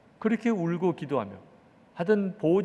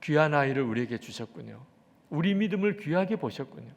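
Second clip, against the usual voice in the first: hushed, lower-pitched thanks to God; thankful prayer; 4 semitones lower than usual. Retold or imitated. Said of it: "이제는 또 감사가 터졌어요". (나직한 감사 기도 재연)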